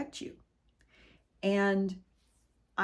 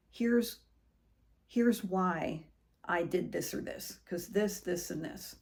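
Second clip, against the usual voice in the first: calm explanation. Shown as a demonstration. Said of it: "very calmly saying".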